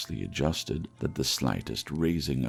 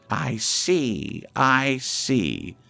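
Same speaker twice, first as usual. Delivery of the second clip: put-on louder, higher, horror-struck old man; horrified; 9 semitones higher, 5 dB louder than usual. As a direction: recoil in dread as you speak. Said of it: "shuddering from head to foot".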